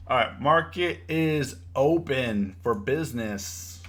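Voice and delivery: slow, drawn-out opening announcement; announcer. Real, not acted. Trader announcing the market open to his chat, slow announcer style. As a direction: stretch each word like declaring doors open.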